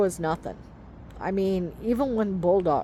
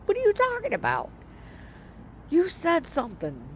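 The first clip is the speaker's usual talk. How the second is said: much higher, fast, put-on incredulous voice; mock exasperation; 10 semitones higher, faster than usual. Retelling asking her husband what he said, high and fast. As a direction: toss it back at him in a hurry. She hears husband call out.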